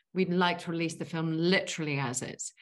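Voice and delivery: a lightly done posh British executive; British accent. Retold or imitated. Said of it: "great British accent".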